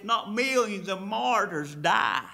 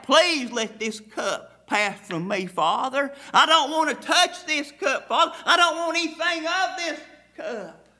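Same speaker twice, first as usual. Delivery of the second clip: crying out in prayer; 3 semitones higher than usual. Retold or imitated. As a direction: beg the Father to take the cup away. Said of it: "He cried out".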